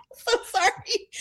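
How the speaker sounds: high-pitched, giggling apology; laughing apology. Real, not acted. Guest apologizes to host after overusing mute button, laughing. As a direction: apologize through real laughter.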